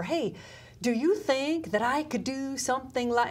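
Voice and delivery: halting, dramatic pauses like Captain Kirk; lightly hammed-up Kirk, pausing mid-line; James Kirk. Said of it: "I don't know why I'm talking like that, like James Kirk".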